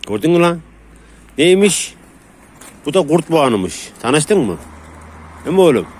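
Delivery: high, loud, teasing praise; playful dog praise. Real, not acted. Owner teasing his dog, high and loud. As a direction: tease the dog fondly, all pumped up.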